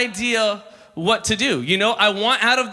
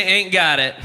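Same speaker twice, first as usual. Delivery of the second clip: call-and-response line; 3 semitones lower than usual. Shown as a demonstration. Pastor leading the crowd's echo, call-and-response. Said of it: "If you're with me, say".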